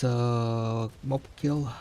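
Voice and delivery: words stretched through a yawn. Real, not acted. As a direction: talk while yawning. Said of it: "S-, sorry for yawning".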